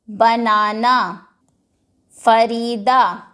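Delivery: each word said slowly, broken into its syllables; split into syllables. Shown as a demonstration. Teacher reads the word list to pupils in syllables. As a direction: spell the words out by their parts, one beat each. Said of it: "ये words हैं ... syllables".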